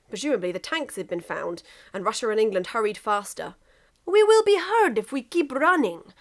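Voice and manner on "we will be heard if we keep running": high, loud warning in a put-on voice; a high, loud character warning; Russia's voice. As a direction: warn him mid-run in character. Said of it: "said Russia".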